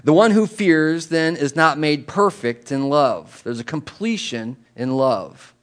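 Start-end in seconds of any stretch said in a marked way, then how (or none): 0.0-3.4 slow, solemn reading; scripture reading. Real, not acted. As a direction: read the verse slowly and deliberately.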